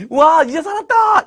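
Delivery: high, drawn-out whoop of relief; hammed-up jubilant relief; mock relieved cheer. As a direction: cheer as if just saved. Imagined cheer of relief, then denied.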